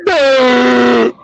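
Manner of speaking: a dumb, stalled "Duh"; mock the lawyer who can't read; mocking a stumbling reader. Mocking the lawyer's stumbling reading, a dumb "Duh". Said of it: "He's like".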